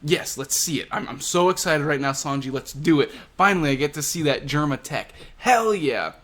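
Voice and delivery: hammed-up giddy villain cheering for the tech; excited Queen. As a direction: whoop it up like a kid finally getting his toy. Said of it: "this gets Queen all excited".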